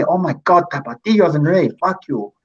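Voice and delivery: shill voice. Retold or imitated. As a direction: ham up a pushy fan insisting. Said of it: "This is my Latin shill voice".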